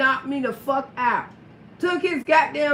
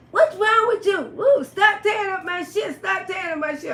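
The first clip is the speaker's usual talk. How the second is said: retold yell; 5 semitones higher than usual. Johnny yelling at her.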